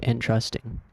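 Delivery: "entrusting" stressed on TRUST; second-syllable stress. Shown as a demonstration. Comparing two similar words, "entrusting" stressed on TRUST. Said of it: "Entrusting stresses the second syllable".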